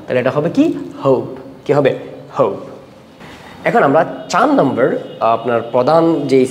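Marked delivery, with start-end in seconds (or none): 1.0-1.2 "হোপ" with the o a little drawn out; slightly long vowel. Shown as a demonstration. Teacher models silent e for students, lengthened o in "হোপ". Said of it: "এটাকে একটু লম্বা করে পড়তে হবে". 2.4-2.5 "হোপ" with a lengthened o; slightly long vowel. Shown as a demonstration. Teacher repeats the model word, long o in "হোপ". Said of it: "একটু লম্বা করে পড়তে হবে".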